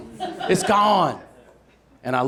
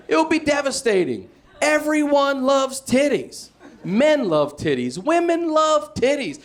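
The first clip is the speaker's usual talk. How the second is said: mock lament; 14 semitones higher, 4 dB louder than usual. Real, not acted. Comic lamenting to the crowd, mock tragic. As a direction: lament like a tragedy.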